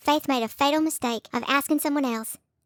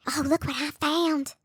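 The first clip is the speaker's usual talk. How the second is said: mocking Julie; 3 semitones higher, slower than usual. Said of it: "running up to you".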